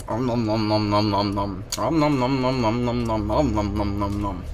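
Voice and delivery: cartoon chewing sounds; munch it out playfully; om nom eating noises. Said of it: "make me eat another fucking burger".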